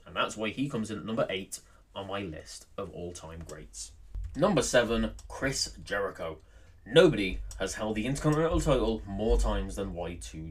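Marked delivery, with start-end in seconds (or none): 4.4-6.4 top ten countdown. Acted. Countdown entry announcement.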